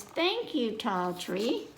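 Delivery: lightly voiced Daddy Pig; cheerful thanks to the tree. Daddy Pig thanking the tree, light cheerful voice. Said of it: "and says".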